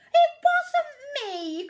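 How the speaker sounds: high, loud, slow protest; Pete protesting. A narrator's reading. Pete denying to the captain, high loud cry. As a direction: plead innocence loudly. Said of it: "cried Pete".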